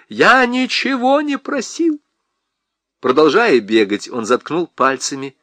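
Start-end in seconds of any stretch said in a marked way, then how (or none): 0.1-2.0 much higher, slow, insistent denial; agitated. Acted. Husband denies asking, high and agitated.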